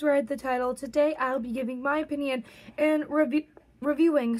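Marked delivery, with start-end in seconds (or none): 3.8-4.4 hiccup breaking the word; word cut by a hiccup. Real, not acted. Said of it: "sorry, I just had a hiccup".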